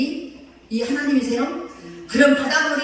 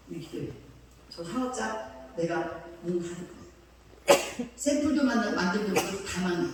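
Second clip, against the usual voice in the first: hushed divine word; 4 semitones lower, 6 dB quieter than usual. Retold or imitated. God's word told to pastor.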